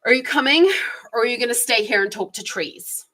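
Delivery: mildly scornful, hurried question; a hint of a disapproving mother; negative tone. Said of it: "said in quite a negative tone".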